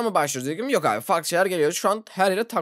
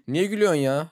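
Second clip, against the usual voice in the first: ordinary talk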